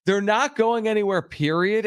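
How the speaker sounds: "They're not going anywhere, period" said firmly, high and final; strong emphatic quote. Retold or imitated. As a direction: stress the quote like a hard promise. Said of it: "That's a very strong".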